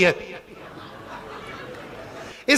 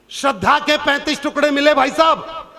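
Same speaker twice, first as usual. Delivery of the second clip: impassioned shout. Real, not acted. Impassioned social message.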